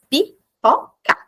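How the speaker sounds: pipoca slow, split into syllables; syllable demo. Shown as a demonstration. Teacher showing the three syllables, said slowly. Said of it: "que tem três sílabas".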